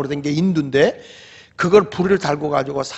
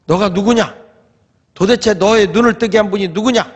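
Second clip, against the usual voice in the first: raised, demanding questioning; stern interrogation; 4 semitones higher, 4 dB louder than usual. Retold or imitated. Pharisees questioning the healed blind man, stern interrogation. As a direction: press for an answer, acting the interrogator.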